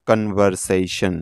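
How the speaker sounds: কনভারসেশন said slowly in four distinct syllables; slow teacher's model of কনভারসেশন; syllable-by-syllable pronunciation. Shown as a demonstration. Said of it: "তারপর উচ্চারণ করব".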